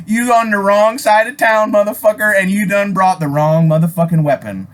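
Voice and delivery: a gun-holder's confident taunt; retold threat. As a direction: stare him down and lay down the law. Narrator retells his own comeback.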